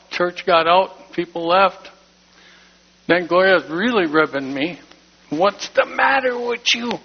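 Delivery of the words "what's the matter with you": worried wife. Retold or imitated. Gloria pressing him after church.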